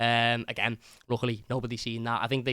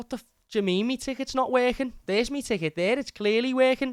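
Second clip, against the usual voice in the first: put-on broadest Scouse accent, very high and loud; 12 semitones higher, 5 dB louder than usual. Someone behind them in the queue speaks, in a broad Scouse accent. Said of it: "In the broadest, scousest accent I've ever heard".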